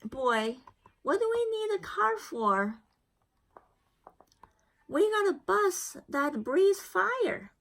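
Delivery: hint of a lively old grandmother; Nana. Nana's voice in the story.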